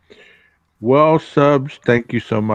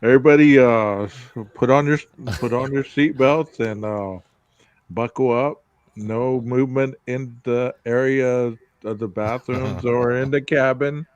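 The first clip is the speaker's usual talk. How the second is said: airline pilot announcement. Pretend. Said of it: "is this your pilot voice".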